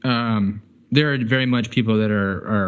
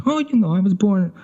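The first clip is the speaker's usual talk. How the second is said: high-pitched mock New York accent; Joe Pesci wannabe; 9 semitones higher than usual. Mocking New Yorkers who ape Joe Pesci, New York wiseguy accent. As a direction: imitate a New Yorker playing the movie wiseguy. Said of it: "wanna be Joe Pesci so bad".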